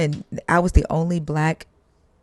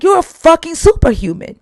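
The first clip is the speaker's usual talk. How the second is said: higher, louder gushing amazement; amazed exclamation; 12 semitones higher, 8 dB louder than usual. Retold or imitated. Investor gushing at the founder, loud amazed exclamation. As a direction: blurt it out in awe. Investor marvels at reading books.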